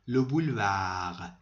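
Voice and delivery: لو بولوار said slowly, ending without any d sound; silent final d. Shown as a demonstration. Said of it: "دی آخر خونده نمیشه". (لو بولوار را بدون صدای دی آخر بگو)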